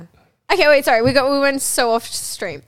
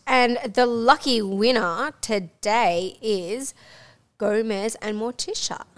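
slow, suspenseful prize reveal; drawn-out winner announcement; slower than usual. Pretend. Host revealing the review prize winner, slow announcer style. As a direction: stretch it out before the names.

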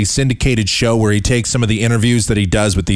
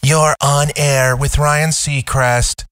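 slow, higher imitation of the promo announcer; mock voiceover; 4 semitones higher, slower than usual. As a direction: parody the cheesy station voiceover. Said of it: "that's a terrible voiceover person".

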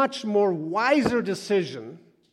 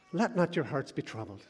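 softer, calm reassurance; gentle scripture quote; 7 dB quieter than usual. Acted. Preacher voicing Jesus, softer and calm. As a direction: soothe the listener.

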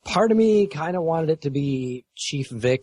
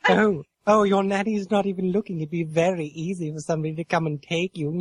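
lightly raised, sugary creepy stranger voice; sweet creepy coaxing; 5 semitones higher than usual. Retold or imitated. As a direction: coax a child like a creepy stranger. Gus creeping out kids, acted.

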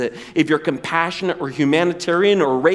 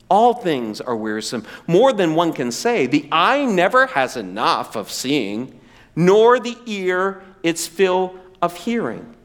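weary reading; 3 semitones lower than usual. Acted. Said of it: "He says it this way".

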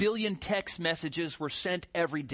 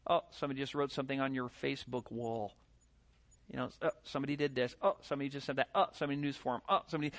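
mock notification voice; 4 semitones lower, 5 dB quieter, much faster than usual.

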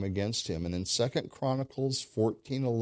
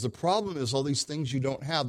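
ordinary delivery

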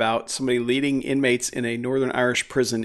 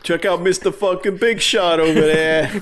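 mock resentment; 5 semitones higher, 4 dB louder than usual. Friends teasing one with a job.

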